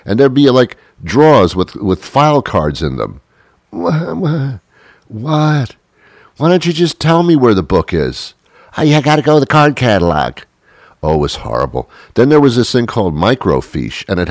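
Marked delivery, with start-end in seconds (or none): 3.7-8.3 exasperated. Retold or imitated. Frustrated with librarian. 8.8-10.4 librarian voice. Retold or imitated. Librarian's voice retold.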